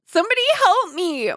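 mock scream. A narrator's reading. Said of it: "tried to scream".

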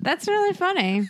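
said through laughter, high; laughing. Real, not acted. Both hosts laughing at the Hepburn joke. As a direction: giggle the words out.

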